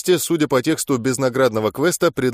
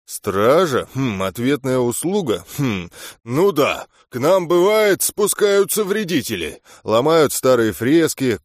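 put-on thoughtful old gnome. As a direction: muse aloud like an old gnome. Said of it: "сказал задумчиво".

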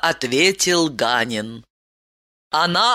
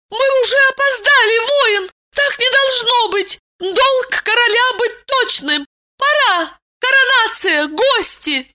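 much higher, louder and fast panic; alarmed; 4 dB louder than usual. A narrator's reading. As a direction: rush him, suddenly frightened. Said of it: "испуганно встала". (в испуге, высоко, громко и быстро)

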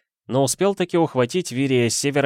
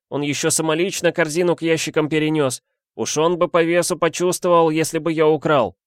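higher, louder rush of protest; heated lament; 8 semitones higher, 4 dB louder than usual. A narrator's reading. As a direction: pour out denials in a hot wail. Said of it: "с жаром, сыпя словами, запричитал". (причитает с жаром)

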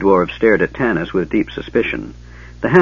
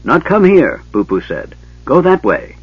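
gully dwarf voice; 6 semitones higher, 4 dB louder than usual. A narrator's reading.

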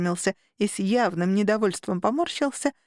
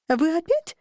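higher-pitched fed-up question; exasperated outburst; 7 semitones higher than usual. A narrator's reading. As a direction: protest as if patience has just run out. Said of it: "не выдержала я пытки восхищением".

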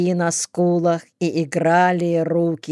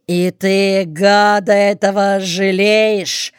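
raised, accusing bark; barked question; 2 semitones higher, 4 dB louder than usual. A narrator's reading. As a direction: throw the question out loudly, as a rebuke. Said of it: "гаркнул капитан". (гневный окрик)

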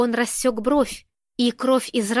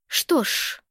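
a breathy, softer threatening hush; quiet menace; 3 dB quieter than usual. A narrator's reading. Irina threatening Kurga, quiet menace. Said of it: "с тихой угрозой произнесла Ирина".

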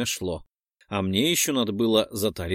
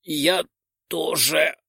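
exhaled; 3 semitones higher, much slower than usual. Acted. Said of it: "выдохнул я".

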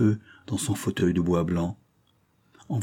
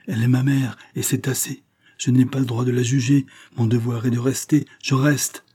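raised pitch, firm and final; resolute, higher-pitched declaration; unshakable resolve; 5 semitones higher than usual. Acted. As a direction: declare it as a settled duty. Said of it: "L'accent de Valentine annonçait une résolution inébranlable".

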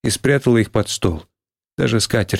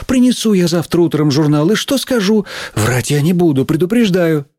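higher-pitched flustered teacher; apologise, then argue back; conciliatory teacher; 7 semitones higher than usual. Acted. Teacher apologising to Лиз but refusing to lie, flustered.

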